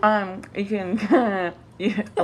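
talking through a cookie; mouth full. Real, not acted. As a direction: speak around a mouthful. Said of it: "I got a fucking cookie in my mouth".

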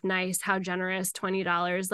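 mock the voucher quietly; lightly bitter inner voice; sarcastic. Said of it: "I was just so bitter and mad".

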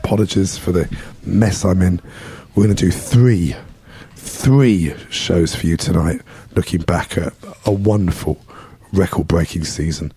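losing his voice, hoarse and strained; hoarse, worn-out voice. Real, not acted. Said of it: "Lost my voice".

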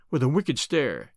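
plain reading voice

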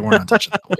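deadpan robot refusing. Retold or imitated. Voicing the auto captions.

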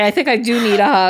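laughing cry. Retold or imitated. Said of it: "I think you need a hug".

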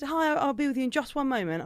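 lightly acted customer-service lilt; retold friendly greeting. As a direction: replay a polite customer greeting. Repeats her friendly waitress greeting.

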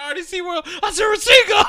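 loud, high, laughing shout like an anime fan; mock hype shout. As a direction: yell it out through laughter. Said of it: "Be like".

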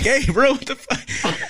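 high, strained mock yell; retold scream. Soldier screaming at doc to stop, high mock scream. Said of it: "I start screaming at him".

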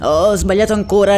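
hammed-up priest yelling; mock shriek. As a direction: blurt out the mistake in a panic. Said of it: "il parroco strillò".

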